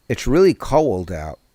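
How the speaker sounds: put-on old-school Newark accent on cold; aunt's Newark accent. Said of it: "have a really great Newark accent".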